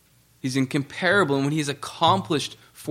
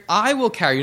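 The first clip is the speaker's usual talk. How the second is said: "I" hit hard and raised, "will carry" falling away; stress on I; 4 semitones higher than usual. Shown as a demonstration. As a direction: lean firmly on the word "I". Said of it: "Notice the emphasis on "I".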